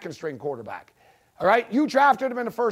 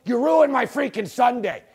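furious at the team; angry shout; 3 semitones higher than usual. Real, not acted. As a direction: yell it in real frustration. Angry fan rant.

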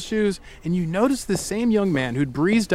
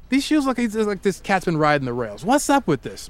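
put-on British accent; 3 semitones higher than usual. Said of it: "but in a British accent".

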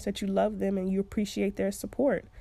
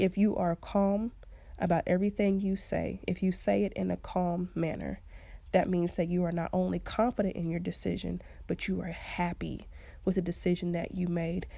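calm voice; 3 dB quieter than usual. Shown as a demonstration. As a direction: keep it soft and calm, slowing down. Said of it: "See, even with me saying it calmly".

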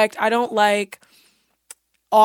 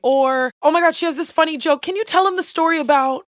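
high-pitched pushy friend prompting; imitating eager friends; 6 semitones higher than usual. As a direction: mimic someone egging you on to perform. Voicing people putting her on spot.

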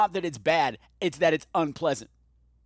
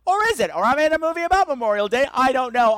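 high, loud excited yelling; startled by firecrackers, yell it out; yelling into the mic; 9 semitones higher, 6 dB louder than usual. Real, not acted. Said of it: "I'm yelling into my microphone".

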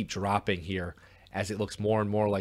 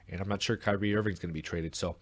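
ordinary talk

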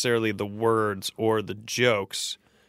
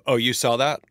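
laughing. Retold or imitated. Mock reply to manager over mic.

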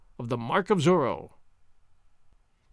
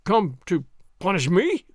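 a swaggering soldier sneering at his foe; Gonzales voice; 2 semitones higher than usual. Acted.

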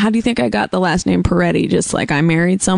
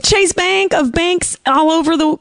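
announcer voice; 10 semitones higher than usual. Acted. Hosting a call-in, grandly announcing caller.

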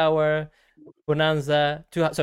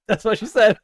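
gleeful punchline; 6 semitones higher, 6 dB louder than usual. Retold or imitated. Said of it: "And I was like".

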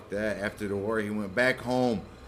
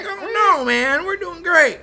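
high, loud, carefree; mock cheery miner; 5 dB louder, slower than usual. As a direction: brush off the offer brightly up high.

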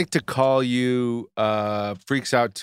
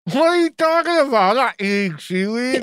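indignant denial; 12 semitones higher than usual. Real, not acted. Denies eating seaweed, caught.

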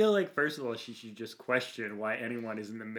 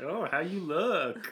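crone voice; 8 semitones higher, 6 dB louder, slower than usual. Retold or imitated. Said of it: "Just like".

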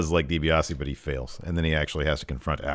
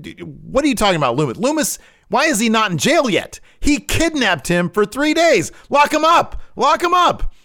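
very high, loud, frantic shouting; hammed-up yelling; 6 dB louder than usual. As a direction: shriek it like a hysterical man demanding an arrest. Gargano yelling at therapist.

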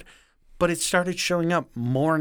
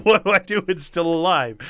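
higher and louder, imitating a panicked hunter; mock panic; 4 semitones higher, 5 dB louder, faster than usual. Cade retelling his panic over the goose, mock panicked and loud. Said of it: "He's like".

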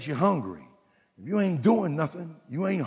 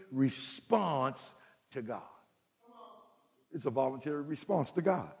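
hushed landing; 5 dB quieter than usual. Real, not acted. Point lands softly, then repeated.

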